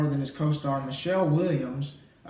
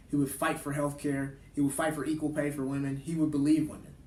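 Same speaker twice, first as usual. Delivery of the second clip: softer, measured closing speech; quiet, serious tribute to close the show; earnest tribute; 5 dB quieter than usual. Real, not acted. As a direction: honor him sincerely, with restraint. Closing tribute to Doctor King.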